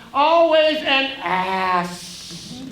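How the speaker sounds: slow, drawn-out sneering insult; mocking taunt. Conscience insulting his would-be killer, slow mocking drawl. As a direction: lean on each always with scorn.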